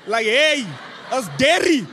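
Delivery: mock English cartoon-kid accent, high and bright with laughter; imitating daughter's Peppa Pig accent. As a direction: play the daughter copying Peppa Pig, giggling. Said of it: "she takes on the accents of the characters".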